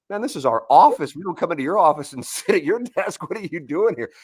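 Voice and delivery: mock telling-off of an intruder; retold scolding. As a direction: act out an indignant challenge.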